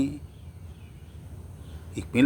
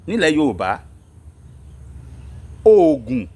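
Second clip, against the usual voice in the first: rallying call; 4 semitones higher than usual. Real, not acted. Host rallying Yoruba listeners to rise and defend themselves, exhorting. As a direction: urge the people to rise, pausing between phrases.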